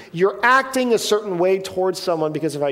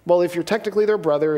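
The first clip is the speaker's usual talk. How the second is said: normal talking voice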